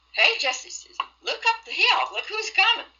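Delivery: imitating children calling. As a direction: call out like an eager little kid.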